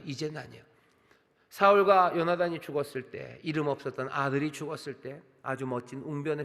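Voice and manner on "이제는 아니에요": repeated much softer, falling; soft echo. Shown as a demonstration. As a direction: let the words sink, softer. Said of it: "하지만 이제는 아니에요". (훨씬 부드럽게 되뇌는 말투)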